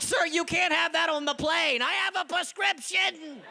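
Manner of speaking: high, laughing mock protest. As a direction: plead through laughter at security. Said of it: "They're like".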